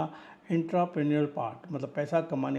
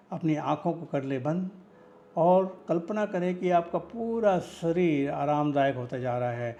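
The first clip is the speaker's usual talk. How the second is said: guided meditation. Acted. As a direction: guide the listener into relaxation, pausing between phrases. (निर्देशित ध्यान की धीमी, ठहरी हुई आवाज़)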